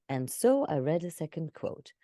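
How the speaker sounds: dull PowerPoint reading; mock flat presentation read. Shown as a demonstration. Coach mocking a dull presentation line, flat. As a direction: read it like a slide deck. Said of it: "That's PowerPoint".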